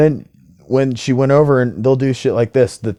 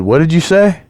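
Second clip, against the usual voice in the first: confronting demand; 7 semitones higher, 4 dB louder than usual. Retold or imitated. Confronting the woman who muttered.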